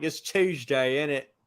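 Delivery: softly put-on British accent; playful British impersonation; mock British accent. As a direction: say it as a quiet, hammed-up Brit. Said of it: "I don't trust the British accent".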